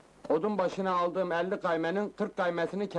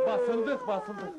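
panicked; 11 semitones higher than usual. Acted. Lovers caught, panic.

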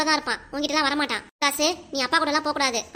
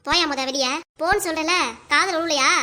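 angry yell; 4 dB louder than usual. Acted. Wife yells husband out.

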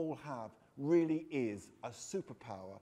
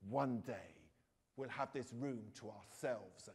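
soft, hushed promise to the dog; whispering; 5 semitones lower, 6 dB quieter than usual. Acted. Boy murmuring to his dog on the floor, hushed. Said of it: "stroking him and whispering".

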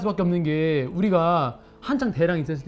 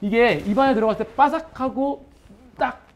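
talking while munching crisp seaweed; crunching seaweed. Real, not acted. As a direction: mouth full of crunchy laver. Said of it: "그다음에 한번 먹어볼게요".

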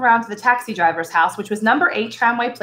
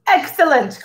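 a bright, pleased exclamation; mild excited cry; eager cry; 5 semitones higher than usual. A narrator's reading. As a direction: jump on the word with delight. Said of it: "cried Tense".

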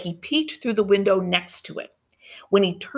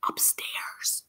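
voiceless hushed whisper; 11 dB quieter than usual. Acted. Andrew leading them inside, whispered. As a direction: breathe the word. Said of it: "I whispered".

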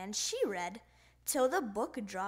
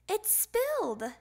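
dismayed; 8 semitones higher, 5 dB louder than usual. Acted. Child dismayed at spill.

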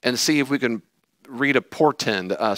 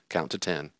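muttered self-calming; 7 semitones lower, 9 dB quieter than usual. Retold or imitated. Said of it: "can picture him going".

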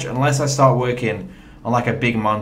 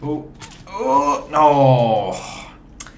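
dismayed groan; much slower than usual. Real, not acted. Groans on dying in the game.

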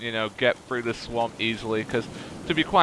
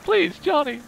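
exasperated pleading; 12 semitones higher than usual. Real, not acted. Begging companion to move.

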